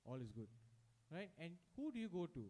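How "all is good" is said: mild comfort. Retold or imitated. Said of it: "put an arm around you and say".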